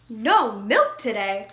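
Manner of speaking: crying out. Acted. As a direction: farmer cries out in disbelief. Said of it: "cried Farmer Brown".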